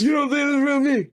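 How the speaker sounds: high, strained raspy imitation; raspy whispering. Friend repeating Joker's line for co-host, high rasp. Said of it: "or whispering raspiness".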